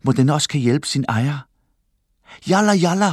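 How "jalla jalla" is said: high, louder impatient call; impatient shout. A narrator's reading. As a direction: hurry them along, shouting. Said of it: "råber Talal utålmodigt". (utålmodigt råb)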